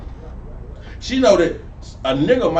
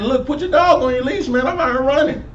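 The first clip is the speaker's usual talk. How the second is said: retold jogger; 6 semitones higher than usual. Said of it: "He told the lady".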